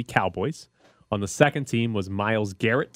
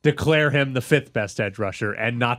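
mock outrage; 3 dB louder than usual. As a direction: ham up the fans' outrage. Mocking upset fans.

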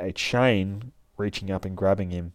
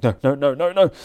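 mock scream; 7 semitones higher, 7 dB louder, faster than usual. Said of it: "starts screaming like".

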